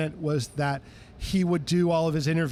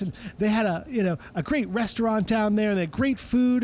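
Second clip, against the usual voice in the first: a famous singer's voice; 5 semitones higher than usual. Retold or imitated. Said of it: "He says".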